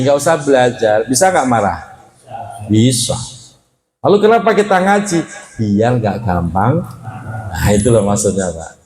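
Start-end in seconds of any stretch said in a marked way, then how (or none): 4.0-5.2 rhetorical question. Acted. Preacher poses rhetorical question.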